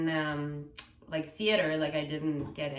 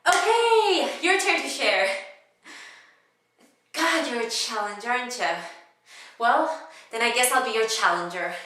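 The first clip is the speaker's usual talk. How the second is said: loud, high, pushy passenger; comedic monologue; 6 semitones higher, 9 dB louder than usual. Acted. Cass pushing a silent seatmate to share, loud comic insistence. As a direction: press the listener, high and loud. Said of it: "it was a comedic monologue".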